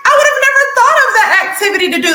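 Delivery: high, fast delighted gush; excited. Retold or imitated. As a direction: gush with glee at the idea. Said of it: "And I'm like".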